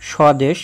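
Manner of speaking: স্বদেশ said as shodesh, with no b; স্বদেশ starting with a plain sho; silent ব-ফলা. Shown as a demonstration. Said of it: "কোনো উচ্চারণ হয় না".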